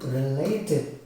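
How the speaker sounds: RELATED slowly stretched into re-la-ted; slow related, each syllable audible; syllable demo. Shown as a demonstration. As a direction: draw out related to show three syllables. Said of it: "three syllables".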